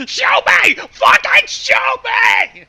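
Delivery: demanding shout. Real, not acted. Listener yelling at the story to explain itself. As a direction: bellow the demand for proof.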